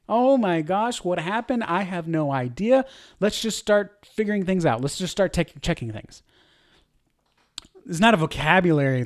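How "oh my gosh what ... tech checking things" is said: panic. Shown as a demonstration. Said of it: "you can hear the panic".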